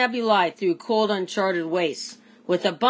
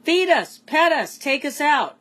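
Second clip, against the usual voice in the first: high, louder pleading pet voices; pets begging; 8 semitones higher, 3 dB louder than usual. A narrator's reading. Lonely pets plead with Stanley, high and eager. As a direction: beg like lonely pets wanting attention. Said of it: "his lonely pets chirped and barked and purred".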